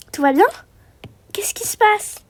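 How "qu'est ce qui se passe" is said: souffler la question à voix basse; murmurer, inquiet; chuchotement inquiet. Acted. (enfant chuchotant, inquiète de la scène)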